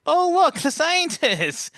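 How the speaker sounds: squealed high and loud, delighted; high excited exclaim. Retold or imitated. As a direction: gush like you just met them. Amused exclaim about new guide.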